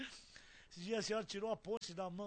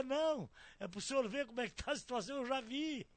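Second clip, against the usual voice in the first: higher, louder imitation of the woman; insistent retold refusal; 4 semitones higher, 6 dB louder than usual. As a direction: raise the voice to act out her insistence.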